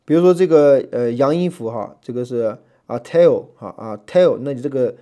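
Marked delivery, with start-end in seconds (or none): 3.0-4.4 “tail”开头重读; tail重音；stress the first sound of "tail". Shown as a demonstration. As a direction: demonstrate "tail" with its opening syllable leaned on. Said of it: "是重音".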